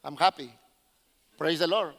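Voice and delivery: low, subdued, barely joyful praise; mock understated joy, low and measured; restrained Anglo rejoicing. Preacher mimics how Anglo people rejoice, low-key and restrained. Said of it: "Anglo people, is like".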